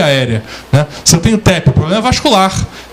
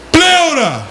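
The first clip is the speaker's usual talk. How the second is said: high call coming back as an echo; mock echo; 8 semitones higher than usual. Shown as a demonstration. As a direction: echo returning from far off. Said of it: "vou escutar". (eco imitado)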